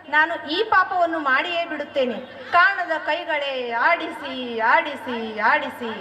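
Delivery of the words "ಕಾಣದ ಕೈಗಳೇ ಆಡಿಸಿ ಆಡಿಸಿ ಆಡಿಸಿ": slow, sinking lower on each repeat; fading despair. Acted. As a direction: surrender to fate. King despairs before execution. (ನಿಧಾನ ಹತಾಶೆ)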